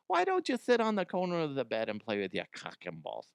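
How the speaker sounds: mama voice. Retold or imitated. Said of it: "that's the mama voice".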